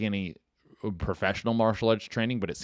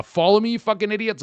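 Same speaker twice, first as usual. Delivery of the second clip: much higher and louder, playful yell; mock insulting shout; 13 semitones higher, 9 dB louder than usual. Host yelling at listeners to follow, mock insult. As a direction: bark it at fans as a joke.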